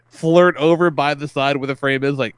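ordinary talk, nothing marked

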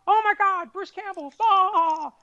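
high, squealing fangirl voice. Retold or imitated. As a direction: gush like a starstruck fan.

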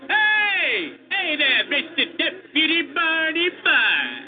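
loud mocking taunt. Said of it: "called Skeeter loudly".

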